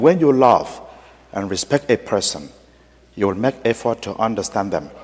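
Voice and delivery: soft, moved repetition; a hushed echo of the priest's words; quiet echo. Retold or imitated. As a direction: say it back softly, as if touched to tears. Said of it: "repeated after him".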